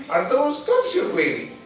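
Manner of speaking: put-on high, thin old woman's question; a curious old lady peering at his hands. Old lady asking Harry about his gloves, high and curious.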